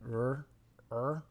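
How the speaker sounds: 'r' as a soft gargle; softly gargle the French 'r'; throaty 'r' from the back of the throat; gargled French R. Shown as a demonstration. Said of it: "gargling softly".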